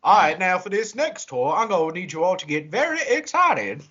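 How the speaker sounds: imitating a tour guide addressing a group; tour guide in character. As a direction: snap back into the tour spiel. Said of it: "cuts right back to character".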